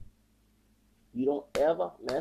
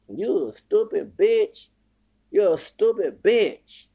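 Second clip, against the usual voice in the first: slow, loud, higher-pitched contempt; angry insult; 4 semitones higher, 6 dB louder, slower than usual. Real, not acted. Insulting a woman who abuses her child, furious. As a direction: drag out every word in real anger.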